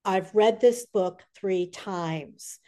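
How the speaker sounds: retold earnest declaration. Retold fan's slow declaration.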